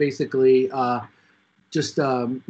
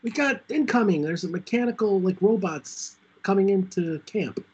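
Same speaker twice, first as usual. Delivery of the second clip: acted yelling; 4 semitones higher than usual. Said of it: "The Bill is yelling".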